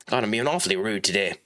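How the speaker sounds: talking through a yawn. Real, not acted. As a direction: say it mid-yawn, words stretched. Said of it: "I just can't control my yawning".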